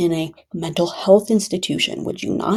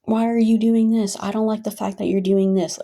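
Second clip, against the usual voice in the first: imitating a partner's objection, pitched a little higher; mildly mock a controlling partner's complaint; 4 semitones higher than usual. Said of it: "Again, controlling".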